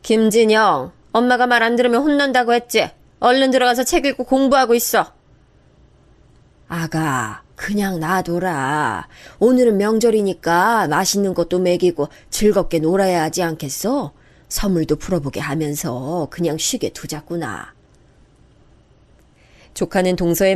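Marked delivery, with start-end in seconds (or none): 0.0-5.1 put-on higher, firm scolding of a child; mother snapping at her son; stern scolding mother. 6.7-17.7 lightly voiced grandmother soothing; gentle old mother-in-law.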